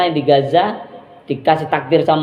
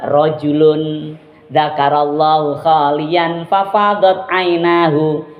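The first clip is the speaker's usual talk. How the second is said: hadith recitation; slower than usual. Acted. Quoting hadith in Arabic.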